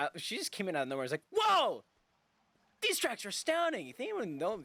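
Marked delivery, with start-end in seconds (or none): 1.3-3.9 very high, loud, overeager excited whoop. Retelling a game character's sudden entrance: imitating a character yelling. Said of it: "she came on really strong to me".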